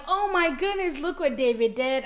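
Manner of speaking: high, thrilled oh my goodness; excited gush. Retold or imitated. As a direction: gush to your friends on FaceTime. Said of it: "I'm like".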